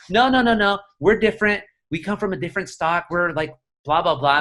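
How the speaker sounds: quoting a mother brushing off the comparison; insistent denial. Retold or imitated. Retelling mom's protest about Michoacanos, insistent denial.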